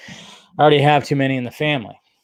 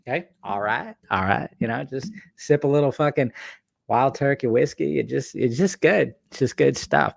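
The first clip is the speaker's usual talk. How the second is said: Matthew McConaughey. Acted. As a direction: do a badly faked easygoing actor. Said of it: "That's my terrible, uh, Matthew McConaughey impression".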